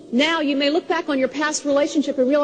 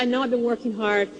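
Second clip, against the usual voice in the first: tender husband; 5 semitones lower than usual. Retold or imitated. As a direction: gently tell her how much you love her. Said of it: "he said".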